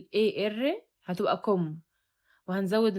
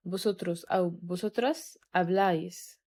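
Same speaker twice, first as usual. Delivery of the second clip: slow, careful, accent on the final syllable of habláis; slow drill; much slower than usual. Shown as a demonstration. Teacher drilling vosotros habláis slowly. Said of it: "تمام".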